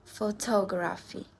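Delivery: "Photography" with the beat on TOG; stress on third-last syllable. Shown as a demonstration. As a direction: say "Photography" as pho-TOG-raphy. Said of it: "we stress in the third last syllable".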